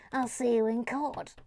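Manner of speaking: mock indignation at normal volume; playful, voiced outrage; mock threat. Same threat repeated aloud.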